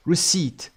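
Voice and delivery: "Receipt" with no P before the T; silent P. Shown as a demonstration. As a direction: model "Receipt", leaving the P silent. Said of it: "پ نداریم دیگه تو این تلفظ". (تلفظ Receipt بدون پ)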